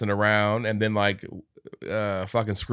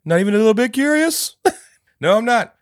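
much higher, louder imitated character voice; high mock voice; 9 dB louder than usual. Podcaster voicing the movie character, high loud mock voice. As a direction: squeak out the line as a silly cartoon. Clint and Scrooge voiced in recap.

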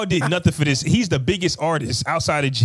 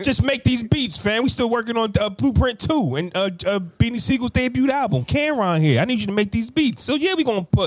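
raised, pushy label boss; 5 semitones higher than usual. Retold or imitated. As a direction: lean on him like a demanding boss. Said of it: "Dame and Biggs want you to continue to make beats".

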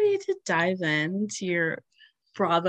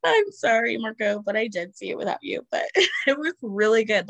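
giggly, playful confession; laughing apology; 3 semitones higher, 4 dB louder than usual. Real, not acted. Laughing while apologising to absent boyfriend.

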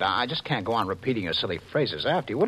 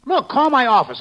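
higher, louder urgent demand; urgent shout; 13 semitones higher, 9 dB louder than usual. Acted. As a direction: push her to call now. Husband insists in distress.

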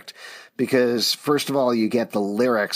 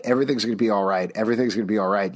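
ironic; much faster than usual. Retold or imitated. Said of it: "this ironic thing of".

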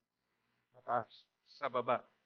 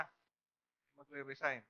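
"Hindi magre-resign" said softer and slow, a quiet final word; 6 dB quieter, slower than usual. Shown as a demonstration. Preacher settling the point gently, soft and slow. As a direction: drop it softly and slowly.

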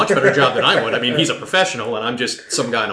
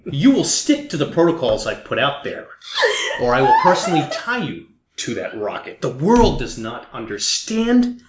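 villain threat. Acted. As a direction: menace them like a supervillain.

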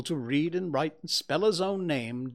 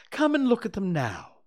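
higher, louder urging; a little surprised; 8 semitones higher, 5 dB louder than usual. A narrator's reading. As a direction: urge them over, slightly surprised. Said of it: "a little surprised".

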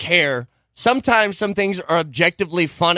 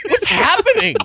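high, loud mock strained yell; mock throaty voice; 12 semitones higher, 4 dB louder than usual. Friend mocks the throaty rap attempt, yelling. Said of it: "Dude, you're still like".

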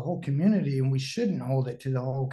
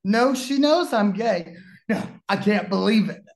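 loud, raised stunned questions; loud disbelief; 4 semitones higher, 5 dB louder than usual. Retold or imitated. Bobby questioning the speaker, loud disbelief. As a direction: press it loudly, refusing to believe. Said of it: "He's like".

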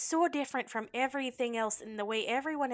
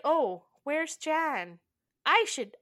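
higher, slow nervous voicing; flustered woman; 6 semitones higher, 4 dB louder, slower than usual. Maggie startled when Emma walks downstairs, flustered. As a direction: sound caught off guard. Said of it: "she's like".

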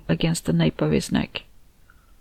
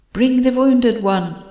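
slow, high voice inside the head; a distant mind voice speaking slowly; whispery telepathic voice; 6 semitones higher, slower than usual. Acted. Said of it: "came Andina's voice in my head".

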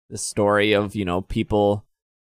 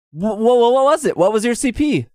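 mock pushy demand; 10 semitones higher, 3 dB louder than usual. Imitating pushy guy.

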